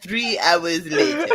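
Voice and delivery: lightly voiced SpongeBob narrator, slow; a hint of the cartoon narrator's French lilt. Quoting the SpongeBob narrator to friends, lightly mock French and slow. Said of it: "French Canadian voice when he's like".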